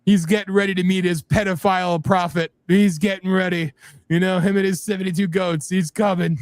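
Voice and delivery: lightly voiced Alex Jones, ranting; hammed-up Alex Jones rant; Alex Jones impression. Cohost mocking the Ayatollah as Alex Jones, ranting. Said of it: "Every time I do an Alex Jones impersonation".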